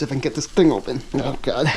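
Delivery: straining at a stuck jar lid; opening a stuck jar. Real, not acted. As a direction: talk while twisting hard at a jar. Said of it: "Can't get this jar open".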